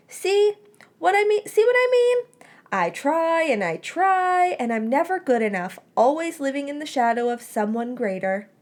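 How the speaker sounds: very high, loud theatrical lament; milk the tragedy for laughs; hammed-up despair. A narrator's reading. Remus overacting wounded pride.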